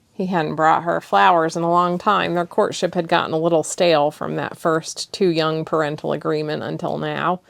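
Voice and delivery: ordinary delivery, nothing marked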